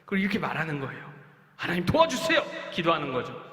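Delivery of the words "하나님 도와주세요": pleading prayer. Acted. Child praying.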